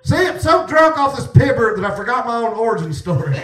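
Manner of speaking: loud, high, laughing confession; loud laughter breaking into the words; laughing through words. Real, not acted. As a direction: crack up while you say it. Cracking up over forgetting his story.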